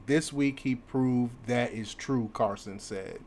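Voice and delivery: news article read aloud with punched openings. Acted. Commentator reads the article to viewers, news read.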